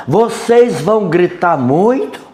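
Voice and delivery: mock the neighbour's harsh yelling; harsh retold yell. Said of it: "Isso gritando mesmo, assim, bem alto, bem áspera". (imitando um grito áspero)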